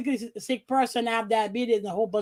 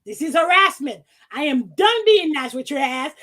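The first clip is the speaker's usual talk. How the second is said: louder, heated reading of her own email; angry quoted rant; 3 semitones higher, 5 dB louder than usual. Retold or imitated. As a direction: rant at him, fed up. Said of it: "he kept at it".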